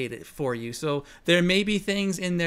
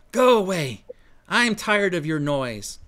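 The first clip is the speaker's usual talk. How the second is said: annoyed; 3 dB louder than usual. Acted.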